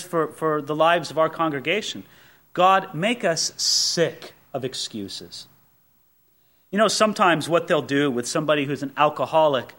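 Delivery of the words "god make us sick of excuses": slow earnest prayer. Real, not acted. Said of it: "my prayers".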